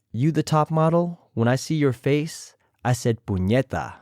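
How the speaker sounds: imitating Jessica Wilde. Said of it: "I tried my best to imitate them".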